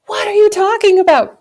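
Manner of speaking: high, loud, disbelieving cry; stunned retold outburst; shocked outburst. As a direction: blurt it out in shock. Shocked by boss leaving.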